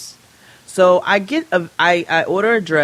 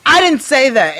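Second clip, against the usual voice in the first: mocking agent; 8 semitones higher, 6 dB louder than usual. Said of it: "how is this my problem now".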